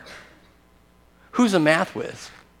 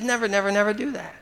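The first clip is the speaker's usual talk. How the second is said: quoted divine prohibition; 5 semitones higher, 6 dB quieter than usual. Retold or imitated. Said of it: "because God said".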